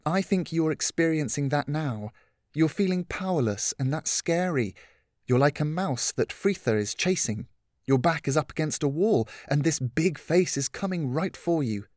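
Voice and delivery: lightly voiced caring mentor; patient Catherine. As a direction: reason with her kindly. Catherine explaining fear to Lillian.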